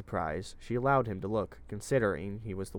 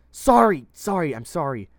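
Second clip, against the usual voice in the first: loud frantic apology, high and urgent; panicked shouting; 8 semitones higher, 13 dB louder than usual. A narrator's reading. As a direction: blurt it out in a panic, much higher and louder. Otis panics while she screams.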